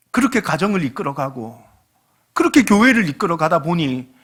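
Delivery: ordinary delivery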